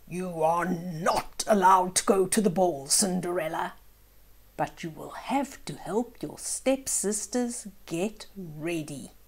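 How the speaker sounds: a hint of a cold, bossy stepmother; lightly voiced stepmother laying down the rule; stern stepmother. Stepmother forbidding Cinderella the ball, lightly stern. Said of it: "her stepmother said".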